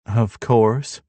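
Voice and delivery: dry mocking echo; sarcastic. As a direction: toss it back sarcastically. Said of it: "Darby chimes sarcastically".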